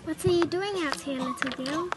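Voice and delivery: friendly wolf. Acted. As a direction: play a wolf asking kindly. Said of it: "asked in a friendly voice".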